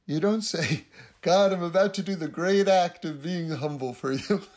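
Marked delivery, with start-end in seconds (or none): 1.2-4.4 self-important mock prayer, breaking into laughter; mock humility. Braggart telling God of a humble act, mock humility. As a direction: announce it grandly to God, tongue in cheek.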